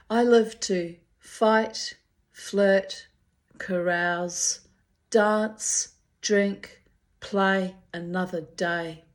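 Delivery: defiant proclamation. Real, not acted. Defiant triumphant motto.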